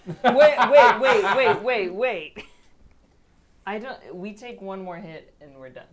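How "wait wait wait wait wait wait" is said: frantic rapid wait wait, loud and high; panicked. Real, not acted. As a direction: stop everything, panicking. Player panics at bad news.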